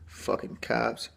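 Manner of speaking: whispered under his breath, slow and soft; slow, soft whispered curse; whispered grumble. Real, not acted. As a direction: grumble it to yourself, barely voiced. Bitter aside after cop story.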